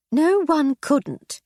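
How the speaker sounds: high, loud and slow rebuke; stern. A narrator's reading. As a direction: clamp down on him sternly. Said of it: "she replied sternly".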